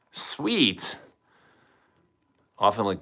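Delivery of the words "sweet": higher unvoiced whisper. Real, not acted. Repeating the reaction to the chat, higher whisper. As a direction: whisper Sweet again, pitched up.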